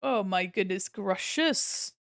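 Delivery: slow, loud cartoon gasp; vintage cartoon voice. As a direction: stretch it out like a cartoon. Drawn-out cartoon exclamation.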